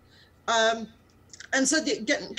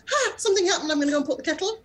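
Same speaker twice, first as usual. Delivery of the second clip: mock British; 6 semitones higher, much faster than usual. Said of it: "You can't just be British and go".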